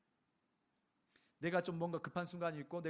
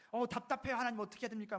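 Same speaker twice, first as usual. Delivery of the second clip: higher, pleading cry to God; mock frustrated plea; 7 semitones higher than usual. Believer beating chest, crying out to God in mock frustration. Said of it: "가슴 치고 막".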